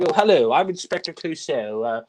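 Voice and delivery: mock greeting, no French accent attempted; robbers as Clouseau. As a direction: imitate a bad Clouseau impostor. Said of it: "they're just saying".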